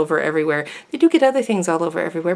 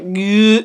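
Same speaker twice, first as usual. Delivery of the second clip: mock blah sound. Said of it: "it's going like".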